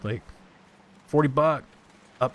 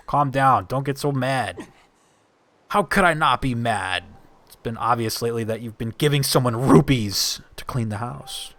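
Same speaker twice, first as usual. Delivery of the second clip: voiced quarrel. Voices game characters arguing.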